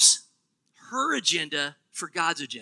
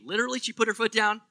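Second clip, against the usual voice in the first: mock literal; 3 semitones higher, faster than usual. Shown as a demonstration. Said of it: "What does that mean?".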